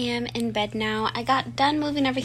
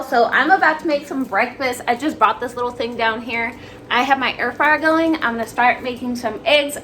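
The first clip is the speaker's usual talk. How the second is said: talking around a mouth guard; wearing a mouthguard. Real, not acted. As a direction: speak with a retainer in. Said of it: "I still have my mouth guard in".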